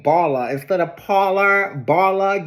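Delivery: "Barla" with a clear B, set against "Parlor"; punning pronunciation. Shown as a demonstration. Explaining an ice cream shop's boozy name, punning pronunciation. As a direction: point up the B in "Barla" as a pun on "Parlor". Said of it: "get it?".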